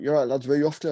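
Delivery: imitated Cockney cabbie; light go at a Cockney accent. London cab driver greeting two lads, Cockney accent. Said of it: "Cockney accent".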